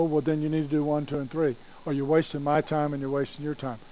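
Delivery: fast, brusque rattled-off instructions; insensitive counselor. Acted. Counselor dismisses a returning client, quick and insensitive. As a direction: reel it off quickly with no patience. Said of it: "insensitive attitude sometimes".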